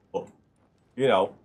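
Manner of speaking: usual speaking voice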